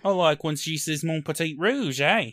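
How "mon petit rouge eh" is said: put-on Australian accent. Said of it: "your best Australian accent".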